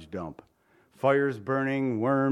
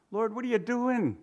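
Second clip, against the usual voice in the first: higher, through a laugh; laughing complaint; 8 semitones higher than usual. Pretend. Preacher mocking his own prayer with a laugh. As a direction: tease God with a laugh. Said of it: "That's my phrase".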